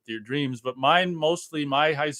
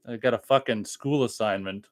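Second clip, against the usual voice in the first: annoyed. Real, not acted. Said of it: "I heard the anger in your voice".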